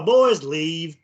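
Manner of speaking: imitated Southern accent, drawn-out vowels; deep Southern drawl. Shown as a demonstration. Host offering friends another reading of the recorded voice, imitated Southern drawl. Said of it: "could be a deep Southern drawl".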